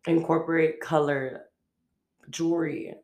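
slow, deliberate restart. Real, not acted. Restarting the tip after talking too fast, slowed down. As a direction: take the phrase slowly, word by word. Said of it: "Let me slow down".

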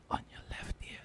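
hushed whisper with a laugh. Pretend. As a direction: whisper it into the left ear. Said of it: "In whispered, hushed tones".

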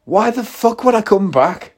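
incredulous, high-pitched comeback; indignant retort. Retold or imitated. Diner retelling his row with the cook, indignant retort. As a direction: throw it back in mock outrage.

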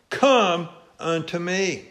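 drawn-out, gentle invitation; slow calling out. Acted. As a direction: stretch each word slowly as an invitation. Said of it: "calling out to the simple".

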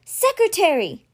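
high, drawn-out holler, falling at the end; yelled summons. A narrator's reading. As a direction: summon the secretary imperiously. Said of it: "he yelled".

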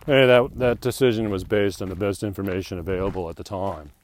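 lightly English-voiced excuse; hint of an English gent excusing himself; code excuse. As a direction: toss off the excuse in a mock English voice. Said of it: "that's a code excuse".

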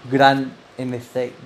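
words broken by a burp; slow, stretched words around a burp. Real, not acted. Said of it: "Perdón, eructo".

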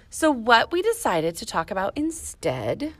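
soft, saccharine-sweet schoolmistress tone; sweetly prim, like a fake-nice headmistress. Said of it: "Is this your headmistress voice?".

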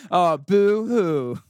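drawn-out mocking whine; mock boo hoo. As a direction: stretch it out to mock. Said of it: "I like that".

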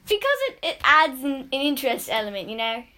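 a touch of a badly faked Australian accent; half-hearted Australian accent, quick. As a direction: hold a mock Australian accent through it. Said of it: "we're gonna need to talk in our accents".

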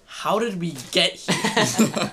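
slow, laughing disbelief. Real, not acted. Laughing at how the game went. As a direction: laugh through the question.

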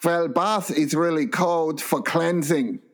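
slow, understated sinister professor; lightly voiced Gunther. Voicing the old professor explaining the bath, slow and mildly sinister. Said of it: "And he says".

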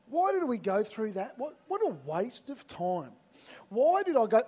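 loud, exasperated self-reproach; kicking himself for going at all; frustrated outburst. Retold or imitated. Preacher reliving his annoyance after the trip, exasperated and loud.

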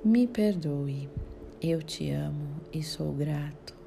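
measured affirmations in short phrases with long pauses; guided meditation. Acted. Narrator guiding listeners through affirmations of God's power, meditative recitation. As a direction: recite it as a solemn prayer, leaving space after each phrase.

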